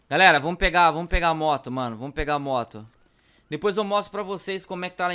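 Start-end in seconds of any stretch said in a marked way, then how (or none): 0.1-2.9 urgent. Real, not acted. Urging to grab the bike.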